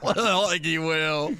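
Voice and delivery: slow, drawn out through laughter; amused, laughing disbelief. Real, not acted. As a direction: laugh through the words, dragging them out. Laughs at own doubtful remark.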